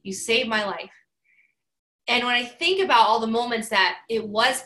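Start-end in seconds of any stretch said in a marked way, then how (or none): 0.0-0.9 slow, hushed and sincere; heartfelt. Retold or imitated. Grateful Stuart thanking Rachel, sincere and slow. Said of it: "He goes".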